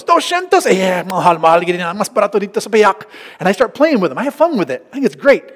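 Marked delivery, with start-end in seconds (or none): 0.0-3.1 mock shock at price. Preacher haggling with a market seller, mock shock. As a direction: pretend the price is outrageous.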